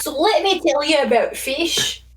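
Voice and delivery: fish facts in a Scottish voice; Scottish accent, in character; put-on Scottish accent. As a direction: play up a Scottish lilt. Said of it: "fish facts with a voice".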